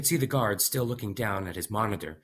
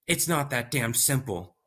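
exasperated scientist; 5 semitones higher than usual. Acted.

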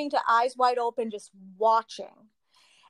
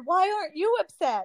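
mock angry question; 7 semitones higher than usual. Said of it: "she got mad at me".

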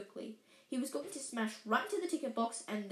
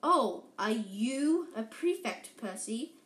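slow, louder, hammed-up astonishment; mock surprise; 4 dB louder, slower than usual. Twin mocking Percy about being a prefect, fake surprise. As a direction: pretend to be amazed to tease him. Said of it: "with an air of great surprise".

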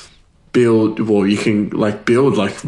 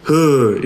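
mock low-energy groan; 3 semitones higher than usual. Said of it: "high energy. You know what I mean? Instead of".

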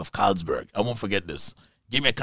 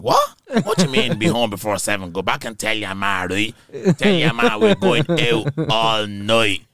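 screaming friend; 5 dB louder, slower than usual. Retold or imitated. Teenage friend objecting to a curfew, mock screaming. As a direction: imitate an outraged friend, stretching the last demand. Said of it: "he was screaming".

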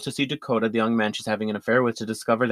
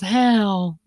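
imitating Madeline's cold greeting; 10 semitones higher, 5 dB louder than usual. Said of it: "she goes".

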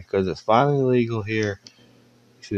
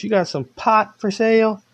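higher, a touch impatient ask; repeating the question; 12 semitones higher than usual. Retold or imitated. Stranger repeating his question to the car, higher and pushier. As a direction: say it again, pushing. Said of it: "Dude goes".

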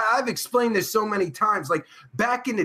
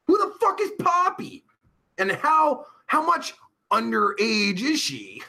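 much higher, shocked question; genuinely baffled outburst; incredulous; 4 semitones higher than usual. Real, not acted. Reacting to chat in disbelief.

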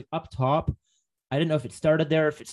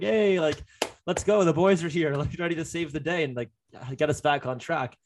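excited; 3 semitones higher than usual. Retold or imitated. Imitating eager reaction to sirens.

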